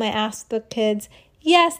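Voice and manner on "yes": put-on high loud children's chorus; eager kids' yes. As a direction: shout yes like eager kids. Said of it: "they all said".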